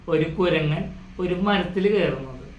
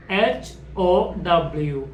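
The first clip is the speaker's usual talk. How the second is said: slow spelling; much slower than usual. Shown as a demonstration. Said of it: "How എന്ന് പറയും".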